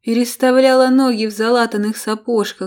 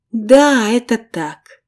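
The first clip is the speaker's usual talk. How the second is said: higher, theatrically mournful sigh; put-on sorrow to win sympathy; feigned sadness; 3 semitones higher, 5 dB louder, slower than usual. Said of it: "Её голос казался наигранно печальным".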